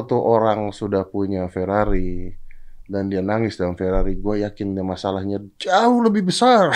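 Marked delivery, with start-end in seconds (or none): 5.6-6.7 "jauh lebih besar" pitched high and drawn out; hammed-up high stress on "jauh lebih besar"; emphatic exaggeration. Real, not acted. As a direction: lean hard on "jauh", stretching it for comic emphasis. Stressing how much bigger the problem is.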